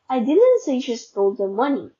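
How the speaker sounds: "I" stressed at the start. Shown as a demonstration. Student showing someone else said it, stress on "I". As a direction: put the weight on "I". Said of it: "meaning someone else said it".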